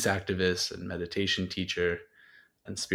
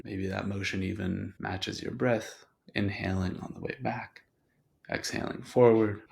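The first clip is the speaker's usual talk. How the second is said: guided meditation. Acted. Host settles listeners before reading a quote, guided meditation. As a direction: ease listeners gently into their bodies, unhurried.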